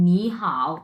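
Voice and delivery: নি rising, then a low dipping হাও; Mandarin tone demo. Shown as a demonstration. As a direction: model নি হাও as tone two plus tone three. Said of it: "দুইটা একসাথে কিভাবে উচ্চারণ করব".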